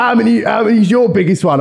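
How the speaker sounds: doing his voice. Retold or imitated. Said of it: "I'm not gonna keep doing the voice".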